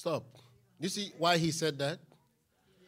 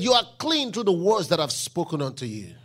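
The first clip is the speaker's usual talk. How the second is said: loud, lower proclamation on "clean"; proclaiming loudly; 3 semitones lower, 5 dB louder than usual. Acted. Preacher quoting Jesus to the congregation, loud proclamation. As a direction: declare it to the room.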